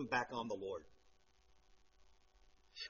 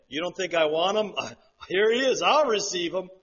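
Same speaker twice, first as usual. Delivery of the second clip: God's joyful welcome; 2 semitones higher, 7 dB louder than usual. Retold or imitated. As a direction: voice God gladly receiving his Son. Preacher voicing God welcoming Son.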